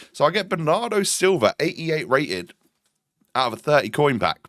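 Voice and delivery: stuffy nose from a cold; congested, stuffy-nosed voice; blocked nose. Real, not acted. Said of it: "sorry, I sound a little bit stuffy today".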